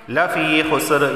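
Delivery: fee stretched one alif long; madd on fee. Shown as a demonstration. Teacher modelling the long vowel, fee stretched. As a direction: lengthen the ee of lafee before khusr. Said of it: "एक अलिफ के बराबर खींचकर पढ़ा".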